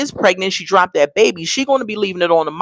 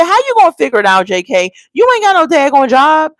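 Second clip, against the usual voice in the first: high, rushed disbelieving questions; fast, exasperated challenge; 4 semitones higher, faster than usual. Pretend. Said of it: "I said".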